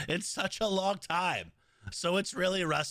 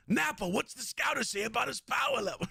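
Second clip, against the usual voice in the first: Vegeta impression; 2 semitones higher than usual. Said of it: "that's Nappa".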